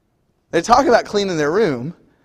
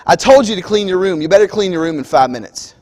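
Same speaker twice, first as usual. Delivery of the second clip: frustrated parent; 4 dB louder than usual. Retold or imitated. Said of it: "you just look at him frustrated".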